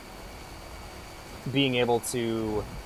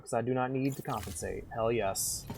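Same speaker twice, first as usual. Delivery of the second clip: softer put-on Southern country voice; mock Southern accent, quietly insistent; 9 dB quieter than usual. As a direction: boast like a Southern good ol' boy. Southern character's boast, repeated plainly later.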